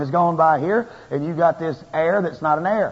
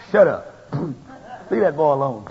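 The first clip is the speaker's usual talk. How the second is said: God scolding. Retold or imitated. God voiced defending the preacher.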